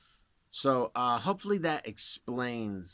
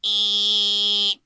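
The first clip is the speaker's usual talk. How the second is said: loud, high, piercing buzz like a smoke alarm; sharp alarm-like eh; bitey buzz; 11 semitones higher, 14 dB louder than usual. Shown as a demonstration. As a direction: make it bite like an alarm. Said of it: "the most bitey sound".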